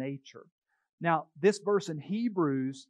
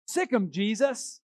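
higher, louder, slow parrot squawk; slow squawked sick 'em; parrot command; 6 semitones higher, 5 dB louder than usual. Retold or imitated. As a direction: bark the punchline like a parrot. Parrot commands the dog, punchline.

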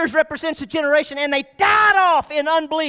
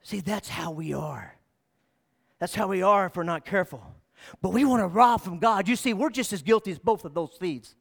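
hushed reflection; 7 semitones lower, 7 dB quieter than usual. Real, not acted. Quiet reflective turn after quote.

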